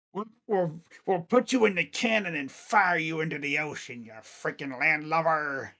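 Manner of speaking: lightly voiced pirate, letting the energy sink as it goes; horrible pirate. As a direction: do a cheesy pirate threat. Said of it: "My horrible pirate voice".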